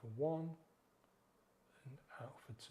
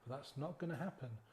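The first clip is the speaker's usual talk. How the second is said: mildly gentle, patient self-talk, lightly voiced; gentle reply. Guide models a gentle reply to the craving, lightly calm. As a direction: calmly turn the craving down, no fight. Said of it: "just very gently say".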